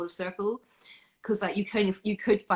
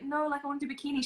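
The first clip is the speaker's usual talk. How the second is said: retold self; 7 semitones higher, 4 dB quieter, faster than usual. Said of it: "And I was like".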